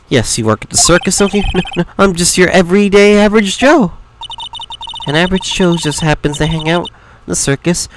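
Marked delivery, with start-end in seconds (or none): 1.5-3.9 jittery denial, slightly raised pitch; anxious fellow playing innocent; nervous stammerer. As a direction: deny it nervously, tripping at the start. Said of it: "This guy is so nervous".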